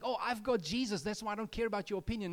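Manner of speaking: mock self-assured brush-off; smug dismissal. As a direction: toss it off like you don't care. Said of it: "So it's not just like".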